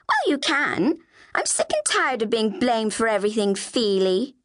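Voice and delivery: high-starting, fed-up comeback; mildly aggrieved little sister; indignant protest. Acted. Flavia protests at being blamed.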